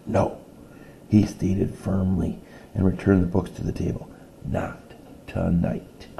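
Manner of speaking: reading a picture book aloud to a class; steady read-aloud storytelling voice; story narration. A narrator's reading. Teacher reading a story to her class, read-aloud voice.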